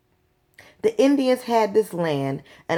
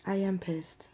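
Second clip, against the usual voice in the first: whispered anger; 10 dB quieter, slower than usual. Real, not acted. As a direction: whisper it, voiceless and intense. Quiet repeat to viewer.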